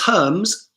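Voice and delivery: first "Hermes" as English HURMZ, second as huh-MEZ; slow, set the two ways of saying "Hermes" apart; parcel-company pronunciation. Shown as a demonstration. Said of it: "Hermes is a parcel company".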